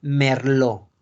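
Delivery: "merlot" pronounced mer-LO; silent T. Shown as a demonstration. Teacher concluding the rule, "merlot" with silent T. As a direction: finish "merlot" on the O, no T. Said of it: "la pronunciación es merlot".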